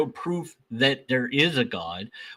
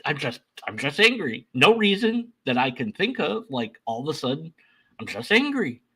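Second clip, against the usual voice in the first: puzzled inner voice; 5 semitones higher than usual. Retold or imitated. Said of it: "and you'll be like".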